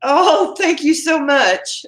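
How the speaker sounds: high, drawn-out heartfelt thanks; touched gratitude. Real, not acted. Host thanks a live viewer, touched. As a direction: thank them high and slowly, moved.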